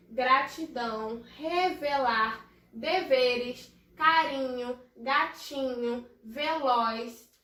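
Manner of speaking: slow, evenly spaced words; word-list reading. Shown as a demonstration. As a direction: read each word out slowly for young pupils. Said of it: "vou ler primeiro todas as palavras". (leitura pausada, palavra por palavra)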